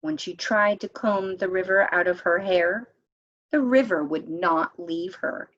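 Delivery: gentle, lilting read-aloud narration; storybook reading. A narrator's reading. Narrator reading a legend to friends, lilting storytelling. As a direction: read it like a picture book to a circle of kids. Reads picture book aloud.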